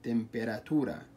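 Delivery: تمبيراتورا said slowly, syllable by syllable; split into syllables. Shown as a demonstration. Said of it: "نقسمها صوتيا". (تمبيراتورا مقسمة ببطء مقطعًا مقطعًا)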